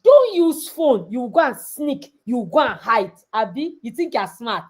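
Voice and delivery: a hint of a stern parent; parent warning. Parents warning children about phones, mild stern. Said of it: "your parents will say".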